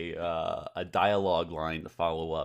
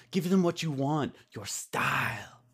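put-on "Give them what you want" in a high, loud made-up foreign accent; 9 semitones higher, 5 dB louder than usual. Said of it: "do the ambiguous foreign accent".

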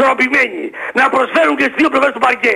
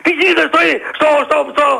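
heated, stumbling indignation; agitated, slightly raised voice; worked-up ranting; 2 semitones higher than usual. Real, not acted. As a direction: rant as if nobody will listen. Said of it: "Ηρέμησε λίγο, Αναστάση, ηρέμησε".

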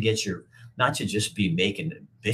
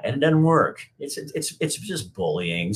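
defiant; 7 semitones higher than usual. Real, not acted. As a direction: slam it down at the troll. Defiant reply to commenter.

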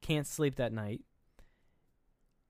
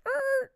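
high squawk of confusion; abrupt, high-pitched imitated "er"; startled sound; 6 dB louder than usual. Imitating a woman stopped mid-talk, startled high squawk.

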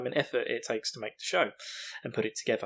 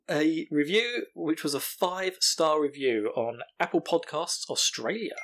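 drawn-out grand announcement, each word stretched; slow announcer read; 2 semitones higher, slower than usual. Acted. Host unveils a five-star review, slow and grand. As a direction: present the review like a prize, slowly.

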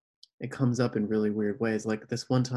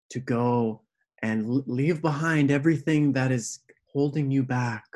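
mock earnest prophecy; 2 semitones higher, 5 dB louder than usual. Retelling the stranger's earnest message.

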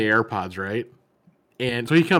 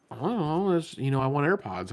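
mock whiny friend; 4 semitones higher, 5 dB quieter than usual. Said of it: "And he was like".

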